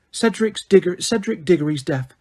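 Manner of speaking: Umbridge, clipped and icy; a touch of cold Umbridge. A narrator's reading. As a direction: coldly dismiss the death. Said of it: "she said coldly".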